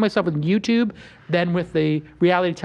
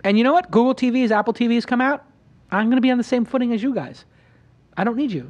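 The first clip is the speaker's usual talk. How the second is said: higher-pitched, emphatic declaration; retold defiant refusal; 5 semitones higher than usual. Host replays rejecting TV producers, defiant. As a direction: turn down the producers with rising insistence.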